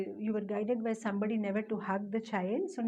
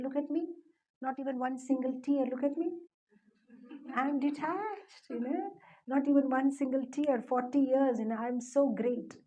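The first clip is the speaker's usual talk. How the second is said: mock self-satisfied boasting, rising in pitch; imitating a man showing off; boastful. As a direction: boast proudly, stretching out the detachment. Acted boast of being detached.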